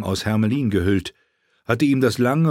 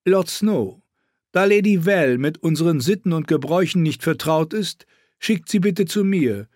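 evil queen; 8 semitones higher than usual. Acted. Queen again.

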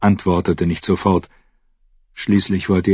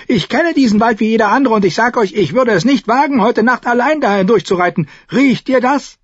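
put-on spooky old ranger; 5 dB louder than usual.

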